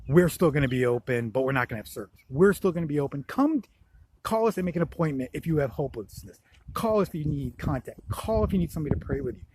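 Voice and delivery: loud, urgent announcement; imagined church announcement. Pretend. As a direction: proclaim it like a church that stays open.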